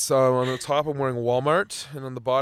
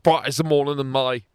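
1 mock Cockney; 5 dB louder than usual.

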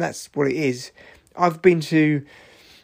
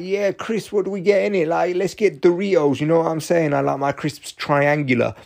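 lightly voiced lads, pitched up at first; mock teenage kids; 4 semitones higher than usual. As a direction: imitate kids hanging round the off licence. Mimics group of kids in off licence.

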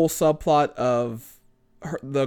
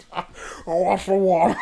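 Men in Black alien; 3 semitones higher than usual. Retold or imitated. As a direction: lightly voice the odd alien. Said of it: "he's like".

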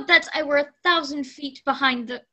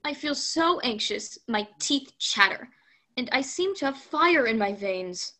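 anxious woman; 4 dB louder than usual. Acted. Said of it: "said the woman".

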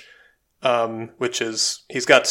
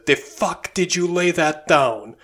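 put-on slow, higher, over-the-top Russian gangster accent; imitating Malkovich's Russian accent; 6 semitones higher than usual. Quoting the Rounders poker scene, in an exaggerated Russian accent. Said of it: "And that's his Russian accent".

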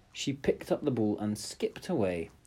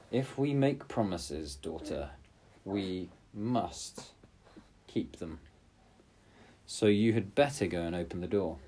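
stern king. Acted. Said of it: "the king said".

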